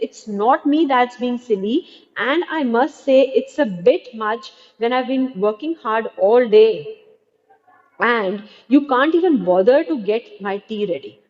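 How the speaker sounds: mildly indignant complaint; aggrieved daughter, sharp. Acted. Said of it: "Doris very indignantly".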